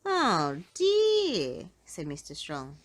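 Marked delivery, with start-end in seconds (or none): 0.0-1.7 sympathetic oh dear. A narrator's reading. Mister Strong sympathises.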